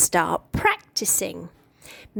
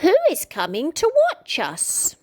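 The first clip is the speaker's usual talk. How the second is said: nervous; 7 semitones higher than usual. A narrator's reading. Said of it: "nervously and asked".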